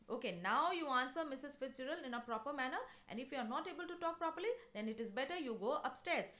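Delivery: mild, firm telling-off; scolding. Acted. Mother correcting Doris's manners, scolding. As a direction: lay down the order, understated scolding. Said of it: "then she scolds, uh, Doris".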